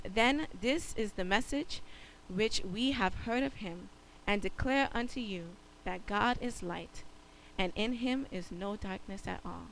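solemn scripture read. Acted. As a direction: read the verse with reverence. Scripture reading.

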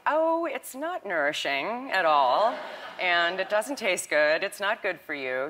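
put-on gently fob off a child, drawing it out; softened explanation. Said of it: "I try to soften what the subject matter".

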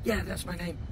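imitating Sylvain. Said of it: "And he's like".

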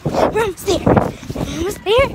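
panting, out of breath; winded from running, gasping words; gasping for air. Real, not acted. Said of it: "Oh, I'm so out of breath".

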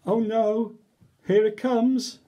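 dreading. Acted. Dreading the silly sounds.

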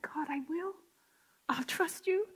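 soft whispered promise; hushed reply to God; whispered surrender. Retold or imitated. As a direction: breathe the answer, quietly yielding. Her answer to God.

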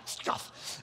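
whispered second try at a scoff. Shown as a demonstration. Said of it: "That's my imitation of a scoff".

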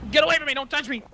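high-pitched alarmed rebuff; panicky protest. Pretend. Fending off intruder in game.

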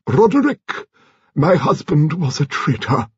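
put-on high, slow elderly lady voice; a grand old lady, deliberate; Lady Lacklander. A narrator's reading.

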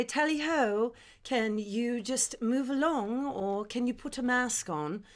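mock posh English accent; prim English superhero asking politely. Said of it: "I talk like this".

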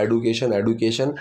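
एडुकेशन said with a hard retroflex d; wrong pronunciation. Shown as a demonstration. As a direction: repeat एडुकेशन with a blunt D. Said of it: "ये pronunciation है ये गलत है".

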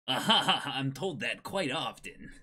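chuckling the line out; laughing through it. Shown as a demonstration. A game character laughing off being called old. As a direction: say it while laughing at yourself. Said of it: "I can do that too".

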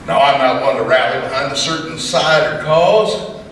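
rhythmic cowboy poem delivery; poem recitation. Acted. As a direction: recite it like a campfire poet.

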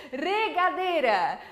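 "Regadeira" devagar com um riso leve; slow model word. Shown as a demonstration. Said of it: "Repite, regadeira". ("Regadeira" lento, rindo um pouco)

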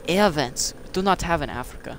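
mock African accent, dry and flat; deadpan fake African accent; lightly done African accent; put-on African accent. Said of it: "do you seriously think I have that accent".

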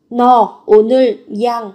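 "약" pronounced yang, loudly modelled; biến âm. Shown as a demonstration. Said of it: "Không phải là 약 mà là". (đọc to, "약" thành yang)

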